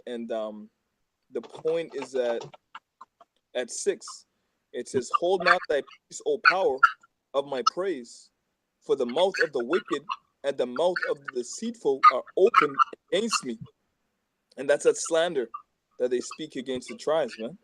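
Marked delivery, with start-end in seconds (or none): 5.2-13.6 louder, deliberate psalm reading; scripture reading. Acted. Reading Psalm 109 aloud to friends, in a proclaiming voice. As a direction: proclaim the verse to the group.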